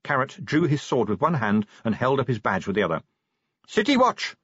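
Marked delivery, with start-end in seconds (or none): 3.7-4.4 high-pitched official shout; roar. A narrator's reading. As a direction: call out to halt a squad. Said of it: "he roared".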